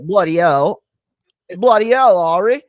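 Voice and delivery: loud, high hammed-up Hagrid with a British accent; Hagrid impression. Shown as a demonstration. Showing his Hagrid voice to his co-host, loud mock Hagrid. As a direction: boom it out like a big friendly giant. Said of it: "that's my, uh, Hagrid for Harry Potter".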